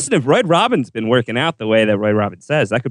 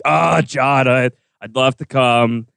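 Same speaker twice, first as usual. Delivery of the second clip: Ghost impression; 3 semitones lower than usual. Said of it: "That's my Ghost impression".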